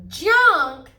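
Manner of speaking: shocked. A narrator's reading. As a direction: blurt it out in disbelief. Cubs shocked at junk.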